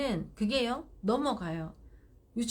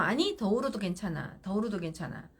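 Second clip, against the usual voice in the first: calm reassuring; 3 semitones lower than usual. Shown as a demonstration. Mother telling crying child it's okay. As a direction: reassure calmly, no hurry. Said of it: "하고 또 문 닫으세요".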